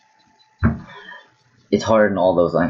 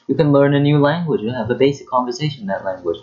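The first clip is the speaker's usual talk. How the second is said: title read; 7 semitones higher than usual. Acted. Restating title in put-on voice.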